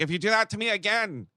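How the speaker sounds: put-on menacing threat; mock threat. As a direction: threaten them like a movie tough guy. Acting out Bo's threat.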